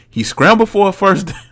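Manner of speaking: can't hold it together mid-sentence, laughing; breaking into laughter. Real, not acted. Reading a tweet aloud to viewers, cracking up laughing. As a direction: voice jumps high as a laugh breaks through. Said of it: "I'm sorry".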